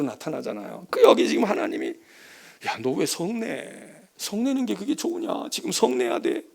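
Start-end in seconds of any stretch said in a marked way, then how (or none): 2.7-6.4 slow coaxing. Acted. God voiced coaxing Jonah.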